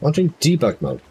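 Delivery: high synthetic system voice; robot voice. Acted. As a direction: computer announcing a mode. Computer system voice.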